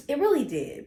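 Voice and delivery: the words crack as tears come; voice breaking. Real, not acted. Remembering her friend who passed, voice cracking. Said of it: "I'm gonna try not to cry".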